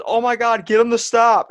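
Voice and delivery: high, loud squealing plea; mock panic shriek. Victim begs his friend to stop the ghost, shrieking.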